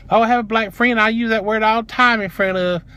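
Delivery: high-pitched mock defensiveness; mocking imitation. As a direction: parrot her excuse up high. Mimics the clerk's excuses.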